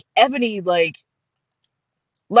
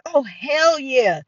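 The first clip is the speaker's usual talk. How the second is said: higher, slow, drawn-out relish; acted delight; 4 semitones higher, much slower than usual. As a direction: savor the offer. Delighted reply to candy offer.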